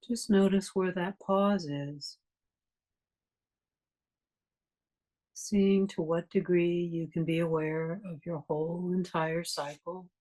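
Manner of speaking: calm, even guiding voice with long pauses; guided meditation. Real, not acted. Meditation teacher leading a class to notice breathing, guided meditation. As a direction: guide listeners gently through the breath, unhurried phrases between long silences.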